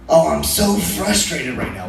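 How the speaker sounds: drawn-out mock exasperation; slow, lightly hammed-up venting; imitated frustration. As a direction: stretch out SO and FRUSTRATED like a fed-up texter. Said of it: "she's like".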